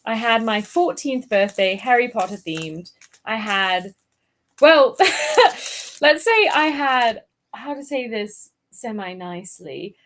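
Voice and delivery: chatty put-on British English; generic British accent. Shown as a demonstration. Guest recalling a birthday party, in generic British accent. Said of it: "we'll start off generic British".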